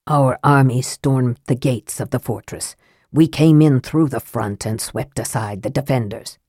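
lightly voiced dwarf prince. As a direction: speak as the proud dwarf prince. Prince figure voiced low.

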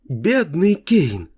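put-on high, slow, childlike chirp; cartoon princess. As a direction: chirp it in a ringing girlish voice. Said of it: "прощебетала она звонким, почти детским голоском".

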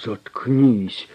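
loud barked order; angry shout. A narrator's reading. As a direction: shut him up hard. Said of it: "крикнул ему Тит". (громкий злой окрик)

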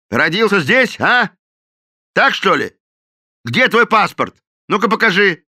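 loud, high sneering interrogation; mock him then demand papers; the captain sneers at the cook and demands his passport. A narrator's reading.

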